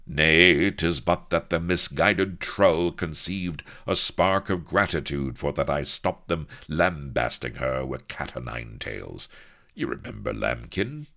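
loud, lofty pirate captain; dismissive swashbuckler. Acted. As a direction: wave it off grandly. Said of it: "He waved a dismissive hand".

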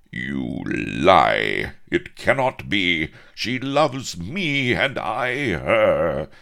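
loud, drawn-out melodramatic outcry; high, hammed-up lovelorn protest; anguished denial. A narrator's reading. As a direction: wail it like a heartbroken hero. Rejected lover's melodramatic denial.

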